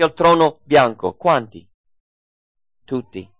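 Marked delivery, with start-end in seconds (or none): 2.8-3.3 a soft, low, dropped "Tutti."; quiet answer. Acted. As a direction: say "Tutti." softly, almost to yourself. Answer repeated quietly then loudly.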